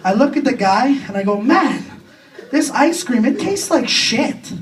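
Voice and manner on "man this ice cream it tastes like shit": disgusted complaint. Acted. Complaining to the ice cream seller.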